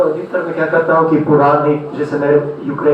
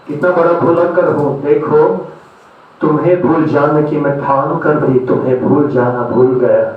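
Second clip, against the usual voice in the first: measured love verse with deliberate pauses; poetry recitation. Acted. Recites love poems to audience.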